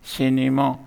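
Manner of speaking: सिनेमा sounded out in three beats; split into syllables. Shown as a demonstration. Teacher giving a three-syllable example, split into syllables. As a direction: give each syllable of सिनेमा its own beat. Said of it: "इसको three syllable कहते हैं".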